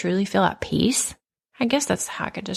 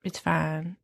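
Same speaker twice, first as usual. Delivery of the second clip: mock sweet forgiveness that sours into sarcasm; sarcastically mocking a too-forgiving heroine; sarcastic forgiveness. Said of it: "I would not have been".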